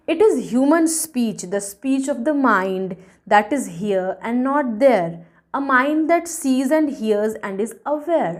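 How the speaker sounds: slow, measured verse reading; deliberate poem reading; poem recitation. A narrator's reading. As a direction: recite each phrase slowly and distinctly. Reads the poem aloud.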